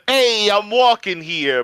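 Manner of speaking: lightly southern take on a New Yorker's yell; southern accent. Acted. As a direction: call it out slowly with a southern twang. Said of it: "but with a southern accent".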